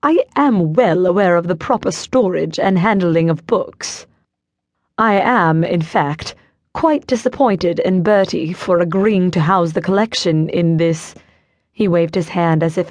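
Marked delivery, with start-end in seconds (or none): 0.0-11.1 lofty British accent, lightly voiced; disdainful British collector, understated. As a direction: lecture her in a mild British accent. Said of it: "with an accent I'd last heard when Prince William visited".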